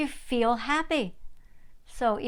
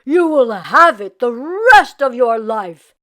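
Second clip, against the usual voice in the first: put-on stern old rabbi; 11 dB louder than usual. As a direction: pronounce it like a verdict. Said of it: "said the rabbi".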